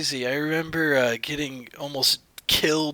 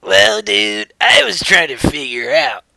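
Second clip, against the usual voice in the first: loud excited; 5 semitones higher, 7 dB louder than usual. Pretend. Playing guest, calling out.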